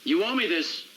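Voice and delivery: measured but insistent demand; earnest insistence. Acted. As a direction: press the point after a pause. Presses the same demand again.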